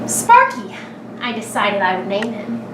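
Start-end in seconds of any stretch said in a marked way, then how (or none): 0.1-0.8 excited naming. A narrator's reading. Child names the new pet.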